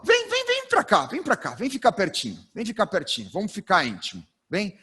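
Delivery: coaxing call to come sit close; a light, welcoming come-here call; inviting closeness. Shown as a demonstration. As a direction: draw the audience in, friendly and intimate. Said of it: "Olha a diferença".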